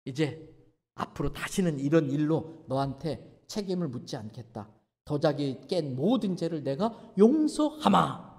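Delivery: solemn forgiveness. Retold or imitated. Father solemnly forgiving son.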